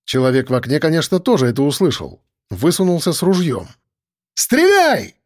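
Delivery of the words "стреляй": sharp high shout to fire. A narrator's reading. Narrator shouting to the sergeant to shoot. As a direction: yell the order across the yard. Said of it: "крикнул я сержанту".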